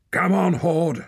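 high, loud shout; shouting man. A narrator's reading. Man in crowd shouts Hord on, high and loud. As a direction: shout him on hard. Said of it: "shouted a man".

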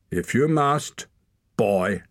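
high contemptuous allowance; condescending man. A narrator's reading. Hord sneers permission at the boy. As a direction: grant it with contempt.

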